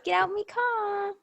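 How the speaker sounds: English mum ordering her daughter out, mock shout. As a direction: put on a cross English mum voice. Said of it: "she says".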